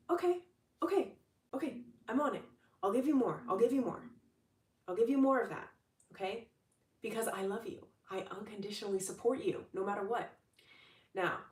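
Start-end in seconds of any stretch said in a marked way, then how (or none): 0.1-10.3 eager God. Retold or imitated. God answering the complaining believer, eager and higher. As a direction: promise it brightly, all in. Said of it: "Then God is like".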